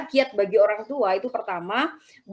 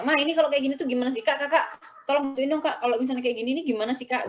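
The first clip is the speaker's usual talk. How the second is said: put-on higher, fast pleading kid asking for help; a lightly voiced child, quick and higher; imitating a whiny child; 4 semitones higher, faster than usual. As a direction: mimic a child begging an older sibling to explain. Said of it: "Dia biasanya nanya".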